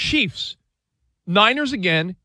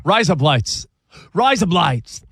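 Aussie razor blades; Australian accent; slower than usual. Retold or imitated. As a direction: say it like an Aussie fan. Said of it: "in an Australian accent".

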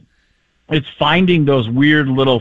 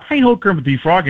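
higher, nasal puppet frog; Kermit the Frog; 4 semitones higher than usual. Shown as a demonstration. Comedian setting up a voice trick, nasal frog. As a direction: pitch it up into the nose. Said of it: "if you take Kermit the Frog".

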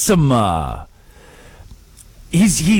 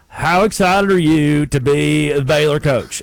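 mock gushing question; 2 semitones lower, slower than usual. Mocking softball question to coach.

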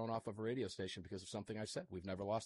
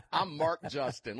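laughing; 3 semitones higher, 6 dB louder, slower than usual. Real, not acted. Host laughs at name mix-up.

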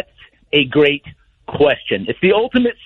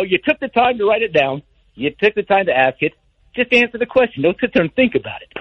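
normal talking voice

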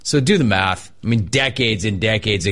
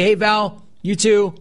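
retold friendly reply; 8 semitones higher, slower than usual. Host's retold reply to barista.

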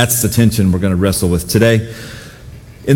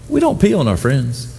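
laughing through words; 5 semitones higher than usual. Real, not acted. Laughing while retelling.

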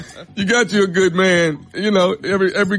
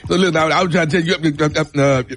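fast, stumbling mock Southern mumble; stammering Southern boyfriend. Mocking the boyfriend's speech to his girlfriend, stammering fast. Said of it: "That's how he sounds".

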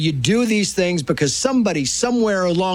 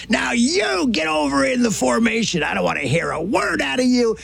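higher, shouted command; coach yelling; 5 semitones higher than usual. Retold or imitated. Coach orders the boy into formation, shouting. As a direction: bark him into the formation. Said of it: "he says".

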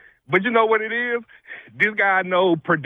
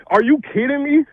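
incredulous outburst; 4 semitones higher than usual. Real, not acted. Caller ranting at coach.

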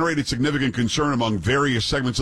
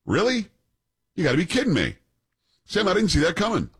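sarcastic surprise; 6 semitones higher, faster than usual. Acted.

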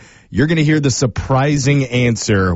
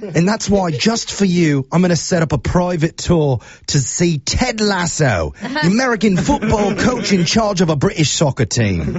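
put-on British accent; 4 semitones higher than usual. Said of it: "use my absolute worst British accent".

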